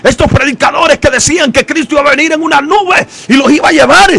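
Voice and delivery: mock desperate cry. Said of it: "usted gritando".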